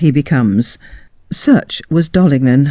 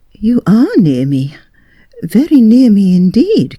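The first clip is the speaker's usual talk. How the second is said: coy lady; 6 semitones higher than usual. A narrator's reading. Lady flirts in dark.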